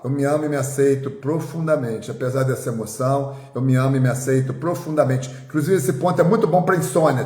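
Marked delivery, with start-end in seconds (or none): 0.0-5.3 calm affirmation. Shown as a demonstration. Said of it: "Só aqui que você fala".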